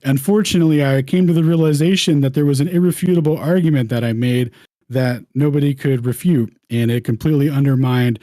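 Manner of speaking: hammed-up posh English accent, high and loud; mock English accent. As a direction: play a jolly English gent, loud and high. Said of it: "narrate in my best English accent".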